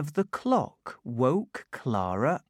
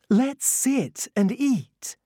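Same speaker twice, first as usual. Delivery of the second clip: tiny tinkling fairy voice; 11 semitones higher, 4 dB louder than usual. A narrator's reading. The fairy speaks.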